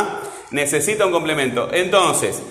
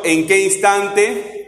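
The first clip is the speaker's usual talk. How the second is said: slow question; 4 semitones higher, much slower than usual. Shown as a demonstration. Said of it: "¿cómo era esto?".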